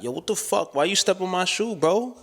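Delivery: high, rising irritated challenge; mock indignant confrontation. Someone confronting whoever stepped on their shoe, mock indignant. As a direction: act out an overreaction to a small slight.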